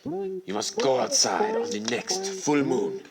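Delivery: high, slow, portentous instruction; mysterious instructor. Acted. Brian tells her the way out, portentous. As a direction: pronounce it like a solemn secret rite.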